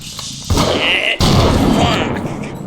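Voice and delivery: high, loud cursing; explosive high-pitched swearing; alarmed swearing. Real, not acted. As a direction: shout curses in a panic. Cursing as enemies attack again.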